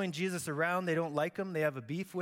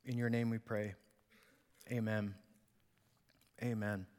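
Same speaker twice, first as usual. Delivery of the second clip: prayer voice sinking lower towards the amen; spoken prayer; 4 semitones lower than usual. Real, not acted. Pastor praying to the Father before teaching, reverent prayer. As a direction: pray sincerely, letting the pitch settle down.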